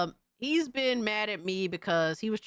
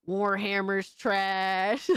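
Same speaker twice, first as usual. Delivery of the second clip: mocking quote; much slower than usual. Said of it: "he's saying shit like".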